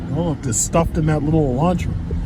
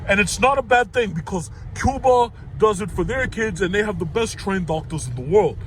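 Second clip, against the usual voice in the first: mock Bernie promising free checks, only lightly changed; Bernie Sanders voice. Mocking Bernie's socialism pitch to viewers, a lightly voiced Bernie. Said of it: "let me do my Bernie voice".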